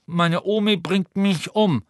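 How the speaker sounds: put-on high, slow, nasal-ish boy mumbling through a broken nose; mumbling Neville. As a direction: Neville grumbling to himself. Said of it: "nuschelte Neville".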